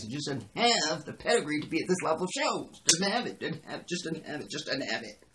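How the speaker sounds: high-pitched exasperated rant; worked-up, disbelieving complaint. Real, not acted. Rant at writer's lack of pedigree.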